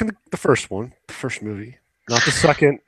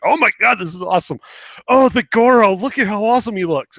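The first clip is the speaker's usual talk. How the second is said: put-on kid's excitement; 9 semitones higher, 3 dB louder than usual. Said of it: "you're like".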